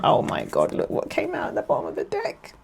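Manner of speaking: whispered in real astonishment at the card; hushed gasp of wonder; awed whisper. Real, not acted. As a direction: breathe it out, overwhelmed. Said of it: "I'm so emotional today".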